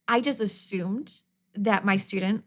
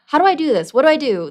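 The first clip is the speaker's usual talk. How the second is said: confused student; 6 semitones higher, 9 dB louder, faster than usual. Retold or imitated. Student confused, raised hand.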